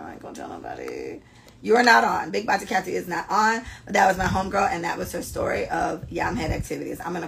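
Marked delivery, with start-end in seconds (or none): 0.0-1.2 hushed, whispered aside; secretive whisper. Real, not acted. Host promising an absent friend secrecy, whispering.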